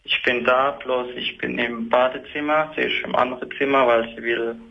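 echoey tiled-room sound on the phone; calling in from the bathroom. Real, not acted. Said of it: "Ich höre, dass du im Badezimmer bist".

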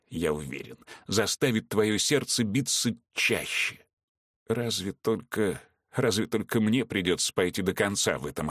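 lightly voiced sneering villain; mock-sweet menace to his captive; villain taunting. Villain taunting Veronika, lightly sneering.

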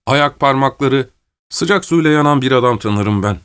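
lightly voiced gendarme, breezily making light of death; a touch of cheery reassurance; gendarme consoling his prisoner. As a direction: talk him out of his fear.

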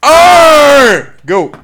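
high, very loud drawn-out count; crowd-rousing countdown yell; shouted countdown. Real, not acted. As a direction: belt out each number, long and high. Shouted group countdown to start.

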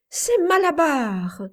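high, loud triumphant yell; strangely powerful yell. A narrator's reading. Boy on his rocking horse, yelling the winner's name. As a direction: shout the horse's name as if possessed. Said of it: "hurla-t-il d'une voix étrangement puissante".

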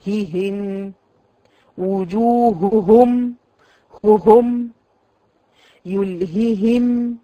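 slow, separated ههم with each ha breathed; slow drill of repeated ha. Shown as a demonstration. Teacher drills repeated ha for her students. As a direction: breathe each ha in وجوههم apart. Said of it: "إذا تكررت الهاء".

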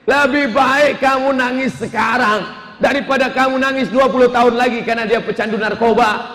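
firm father lecturing his crying wife. Acted. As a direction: lay it down firmly to the wife. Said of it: "akhirnya si bapak tegas".

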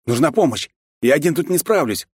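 calling for help across the deck; shouted. A narrator's reading. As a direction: shout it out over the noise. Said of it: "прокричал я". (громкий крик о помощи)

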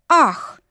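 sharp high gasp of shock; a whole hall gasping at once; a crowd gasping in surprise; collective gasp. A narrator's reading. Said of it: "дружно выдохнул зал".

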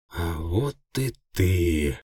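slow, hissed gloating; malicious hiss. A narrator's reading. Cripple greeting his captured enemy, slow malicious hiss. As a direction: savour the catch with a hiss. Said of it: "злобное шипение".

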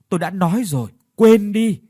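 wife snapping at her husband to forget it; firm dismissal. Acted. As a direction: brush it off firmly, voice jumping up.

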